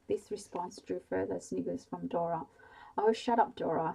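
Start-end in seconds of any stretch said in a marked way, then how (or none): 3.0-3.9 irritated, louder retort; snapping. Acted. Sally snapping at giggling sister Dora, irritated. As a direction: bite back at the teasing sister. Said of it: "snapped Sally".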